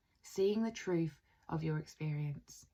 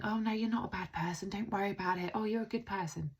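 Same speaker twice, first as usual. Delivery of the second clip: dismissive reassurance; 3 semitones higher, faster than usual. Retold or imitated. Someone not validating a self-doubter, mock dismissive reassurance. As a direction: imitate someone hurriedly talking them out of it. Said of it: "That's invalidating their experience".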